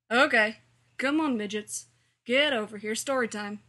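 put-on loud teacher rounding up the kids; calling kids over. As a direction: call out loudly to gather the children. Teacher calls children over for story.

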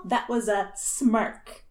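slow emphatic. Acted. Fan emphasising.

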